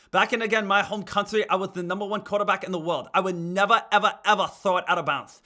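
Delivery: loud, hammed-up braggart quarterback; mock boastful quarterback. Streamer plays a cocky quarterback for chat, hammed-up. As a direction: puff up like a cocky star quarterback, half-joking.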